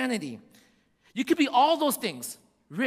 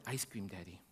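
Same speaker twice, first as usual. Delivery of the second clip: put-on small child's plea; 14 semitones lower, 16 dB quieter than usual. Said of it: "It's like".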